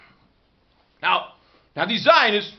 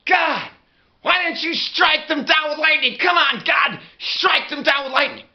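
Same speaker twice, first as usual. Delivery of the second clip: angry plea; 5 semitones higher than usual. Retold or imitated. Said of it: "and I'm like".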